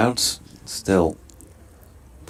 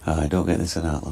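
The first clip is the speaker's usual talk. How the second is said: light mock Yorkshire accent; a gentle, playful Yorkshire lad imitation; half-hearted Yorkshire accent impression of a batsman; Matthew Revis's Yorkshire accent; 2 semitones lower than usual. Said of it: "Matthew Revis does speak like that".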